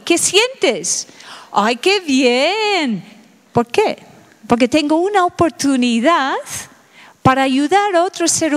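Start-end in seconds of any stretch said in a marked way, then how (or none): 1.5-3.0 pleased sigh. Pretend. Voicing delighted reply to friend.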